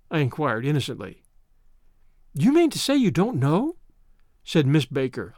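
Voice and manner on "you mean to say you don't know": high, startled disbelief; surprised she doesn't know it; honestly surprised. A narrator's reading. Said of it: "honestly surprised".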